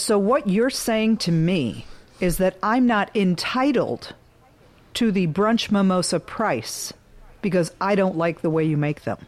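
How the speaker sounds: slow, deliberate mock of an entitled customer; drawn-out, pointed retelling of her complaint; imitating entitled customer. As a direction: spell it out slowly, like an aggrieved customer. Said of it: "say it exactly the way she said it".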